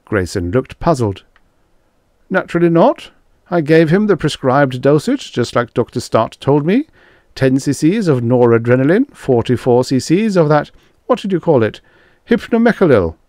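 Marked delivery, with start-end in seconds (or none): 2.3-13.1 higher-pitched, a little louder defensive voice; defensive young doctor. A narrator's reading. Grayson insisting he followed the prescribed dosage, defensively. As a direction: protest as the puzzled young doctor.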